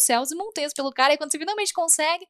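mock disbelief at her friend, half-laughing; exasperated retort. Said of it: "Eu falei".

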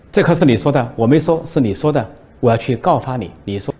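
提高嗓门大声嚷，音调更高; 抓住把柄似的高声喊出来. Retold or imitated. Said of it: "大喊一声". (胡锡进抓住对方把柄，高声大喊)

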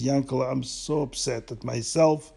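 a friend confessing a theft, upset and pleading; tearful confession. Acted. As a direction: confess it all, a bit choked up. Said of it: "Zundel began to cry".

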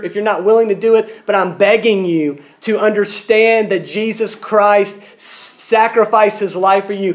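earnest re-enacted plea; insistent appeal, slowing at the final request; pleading. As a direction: urge them as if begging. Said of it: "I plead with people".

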